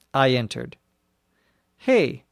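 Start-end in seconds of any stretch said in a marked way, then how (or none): 1.8-2.2 a sharp, raised "Hey"; yelled. Acted. Man catching a stranger in the back room, mild yell. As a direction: call out to stop an intruder. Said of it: "a man yelled at me".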